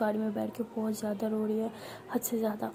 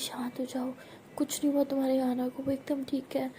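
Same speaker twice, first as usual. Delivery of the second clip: softer, hushed reassurance; calm her down gently in a whisper; soothing whisper; 4 dB quieter than usual. Acted. Doctor hushes the sobbing Anu, softly soothing.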